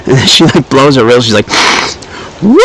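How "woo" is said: mock whoop. Character hypes herself before a rail.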